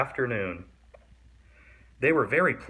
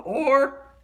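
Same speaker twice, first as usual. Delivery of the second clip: threat; 13 semitones higher, 6 dB louder than usual. A narrator's reading. Swamp threatening.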